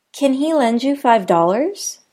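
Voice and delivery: "Can" quick and weak, question rise; unstressed can. Shown as a demonstration. Teacher demoing unstressed can in a question. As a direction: keep "Can" light. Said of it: "whereas can isn't".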